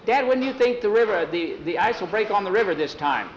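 put-on high-pitched boy's voice; Ralph. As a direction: ask Dad like an eager boy. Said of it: "one of the boys, Ralph, said".

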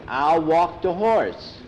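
the sidekick reluctantly agrees to walk the horse, slow and whiny; reluctant boy. Acted. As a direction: drag it out like a sulky boy giving in. Skeeter grudgingly agrees to chore.

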